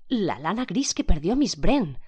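slow, loud voice gripped by horror; horror and fear. A narrator's reading. Woman staring at the wig, slow frightened voice. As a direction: force the words out through dread. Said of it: "con voz que el horror y el miedo la angustiaban".

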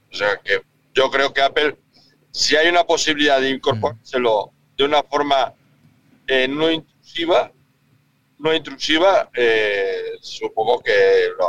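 bad car phone line; breaking up over a headset; bluetooth headset mic. Real, not acted. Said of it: "Se te escucha fatal".

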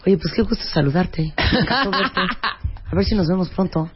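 mock tight-mouthed greeting; tight-lipped speech. Shown as a demonstration. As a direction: mouth barely open, lips held tight. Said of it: "O que te hablan así".

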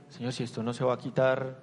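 softly voiced despair; anguished plea. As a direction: pray it as if at the end of your strength. Anguished prayer voiced in testimony.

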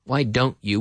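"don't" and "you" kept separate; word-by-word "Why don't you"; unlinked words. Shown as a demonstration. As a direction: clean break before "you", no ch sound. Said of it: "We link it together".

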